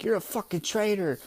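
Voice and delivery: lightly acted angry threat; mock pissed-off. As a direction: scold a traitor, half in earnest. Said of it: "getting pissed at Peckham".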